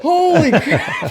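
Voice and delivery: very high, slow, laughing "Holy crap"; stunned exclamation. Retold or imitated. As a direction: drag it out in laughing disbelief. Friends shocked by the neighborhood.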